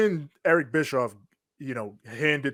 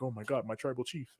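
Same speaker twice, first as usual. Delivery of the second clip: Heyman; 2 semitones lower, 13 dB quieter than usual. Retold or imitated. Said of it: "he starts slinking out of the ring like".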